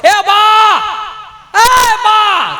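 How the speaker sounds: high long shout across distance; calling out loud. Retold or imitated. A village man calling his mother from far away with a long, high shout. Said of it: "રાઈડ પાડો".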